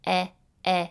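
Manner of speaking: "e, e" said as a short open "eh" sound. Shown as a demonstration. Teacher sounding out elephant's first sound. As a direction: isolate the "e" of elephant.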